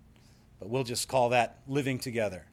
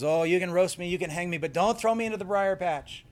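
higher-pitched mock pleading; Brer Rabbit; 4 semitones higher than usual. Rabbit bargains with the fox, mock pleading. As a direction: beg with feigned dread. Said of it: "And the rabbit says".

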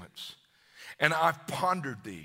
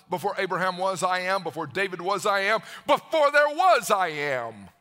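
building proclamation; 5 dB louder than usual. Acted. Jesus declaring he existed before all, building shout. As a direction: build each I am until it bursts.

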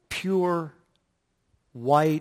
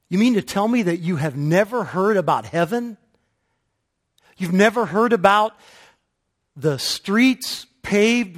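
high, loud, awestruck swan; excited swan; 6 semitones higher, 9 dB louder than usual. Acted. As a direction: rhapsodize about heaven, swept away. Swan preaches heaven to crane.

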